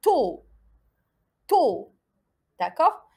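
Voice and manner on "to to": "To" with the o held; syllable demonstration. Shown as a demonstration. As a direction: model "To" as one clear syllable. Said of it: "على واش تحصلت؟".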